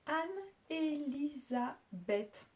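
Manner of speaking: slowly spaced-out name; syllable by syllable. Shown as a demonstration.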